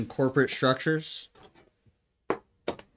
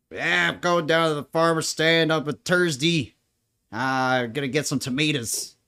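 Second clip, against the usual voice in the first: light Irish lilt, a bit higher; grandfather's Irish accent; 3 semitones higher than usual. Retold or imitated. Granddaughter imitating her Irish grandfather, light Irish accent. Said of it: "My grandfather used to talk like that".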